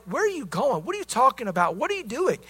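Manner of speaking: lightly voiced, bewildered string of questions; puzzled disciple. Thomas questions Jesus about his leaving, puzzled. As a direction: question him like a confused follower, voice lifting on the last. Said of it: "And Thomas is like".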